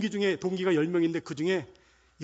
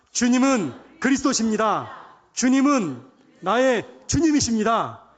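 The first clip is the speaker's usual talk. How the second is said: loud, drawn-out declaration; twice as loud; 4 semitones higher, 8 dB louder, slower than usual. Shown as a demonstration. Preacher leading the congregation to confess louder, loud slow declaration. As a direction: declare it slowly at full voice. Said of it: "두 배로 크게 시작".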